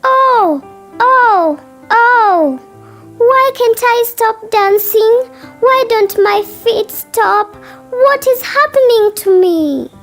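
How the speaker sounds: very high, loud wail; high-pitched distressed child; panicked child. Acted. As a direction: cry out in alarm as the frightened girl. Kai cannot stop dancing.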